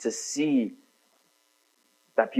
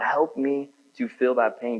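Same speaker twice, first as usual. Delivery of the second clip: slow prayer; 3 semitones higher, slower than usual. Shown as a demonstration. Modelling a prayer.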